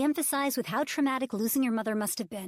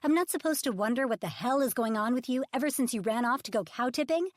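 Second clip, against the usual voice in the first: higher, louder sarcastic retort; indignant argument; 5 semitones higher, 5 dB louder than usual. Acted. Publicist throwing the threats back at Ridge, loud and indignant.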